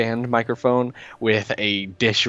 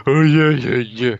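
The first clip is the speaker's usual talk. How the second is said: casual oh yeah tone; 3 semitones higher, 5 dB louder than usual. Retold or imitated. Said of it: "kinda tone".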